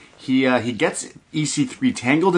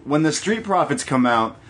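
1 Vic Joseph bit; 4 semitones higher than usual. Retold or imitated. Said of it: "Vic Joseph is like".

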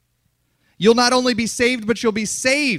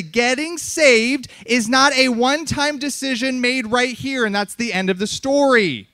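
slowly repeated. Shown as a demonstration. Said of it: "say that again slowly".

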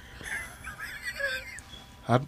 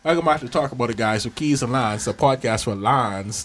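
podcast intro. Acted. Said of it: "this is how we're supposed to start the podcast".

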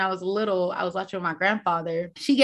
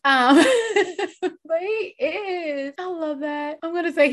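laughing through tears; 8 semitones higher than usual. Real, not acted. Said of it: "That warmed my heart so much".

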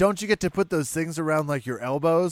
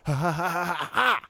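rapid run of striker's ha sounds; mock fighter exhalations, slightly raised; imitated pad-work noises; 4 semitones higher than usual. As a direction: puff out quick ha's like hitting pads. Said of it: "do the different pad work and be like".

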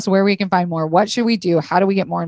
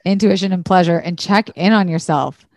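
voice cracking. Real, not acted. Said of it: "My voice just cracked when I said that".

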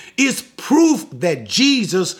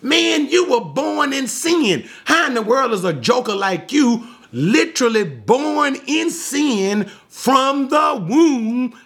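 higher-pitched mock outrage; angry Pharisees; 5 semitones higher than usual. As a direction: act out indignant scolding, stretching key words. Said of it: "they were angry because".

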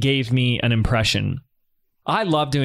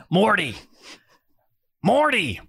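higher, slow, drawn-out mad scientist call; Rick from Rick and Morty; 9 semitones higher, slower than usual. Acted. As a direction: drag out the name like a boozy old genius. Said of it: "here's my best impression of doing Rick from Rick and Morty".

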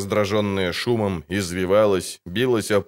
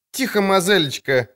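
a higher, raised shout from a trader; shouting market woman; 10 semitones higher than usual. Acted. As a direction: hush the girl from the crowd. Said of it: "крикнула торговка".

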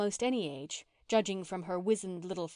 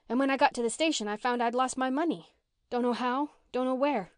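higher and louder, an agitated rush of dismay; the runaway girl telling the children how she lost her money, upset; rising dismay; 4 semitones higher, 4 dB louder than usual. Acted. Mary recounts losing her money.

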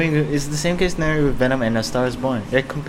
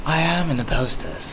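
indignant British villain, pitched up; lightly voiced British guy, higher in protest; Black Mask; 6 semitones higher than usual. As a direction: insist with stress on AM. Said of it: "I'm supposed to be the scary British guy".

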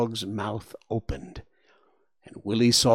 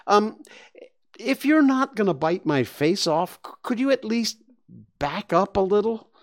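put-on high hesitant child voice, pleading; a squished kid asking politely; begging boy; 10 semitones higher, 3 dB louder than usual. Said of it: "Willie begged".

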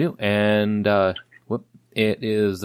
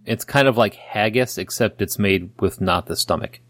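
put-on Scottish accent. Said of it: "the worst Scottish accent you've ever heard".

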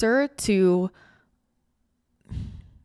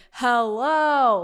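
a big voice from the sky, louder and drawn out; booming loving voice; 6 dB louder than usual. Retold or imitated. Face from the sky greets her in a booming, loving voice. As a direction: greet them like a giant kind face in the clouds. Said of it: "in a booming voice, like a loving voice".

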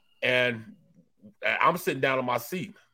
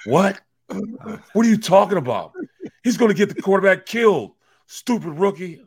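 indignant yell; 7 semitones higher, 9 dB louder than usual. Retold or imitated. Acted argument with angry coworker.

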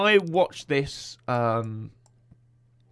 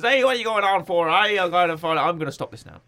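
hammed-up Irish confrontation, loud at first; confronting in Irish accent; 3 semitones higher, 4 dB louder than usual. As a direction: challenge him in a mock Irish accent. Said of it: "He confronts him in the pub and says".

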